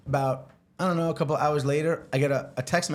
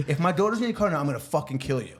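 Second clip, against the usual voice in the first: mock threat; faster than usual. Mom threatens.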